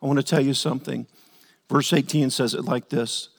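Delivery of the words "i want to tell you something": soft, hushed and tender; gentle Jesus. Retold or imitated. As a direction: draw him close and speak softly. Takes a deep breath.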